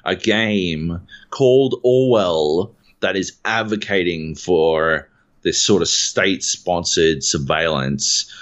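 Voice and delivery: slow, incredulous forum poster; mock indignation. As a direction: read it out as a slow, measured outrage. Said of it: "forum thread was".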